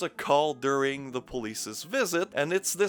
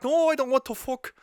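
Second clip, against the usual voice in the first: much higher, louder mock girlfriend refusing; more exasperated mock refusal; 9 semitones higher, 4 dB louder than usual. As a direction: refuse her a second time, pitched way up and pushed harder. Acted couple's quarrel, repeated refusal.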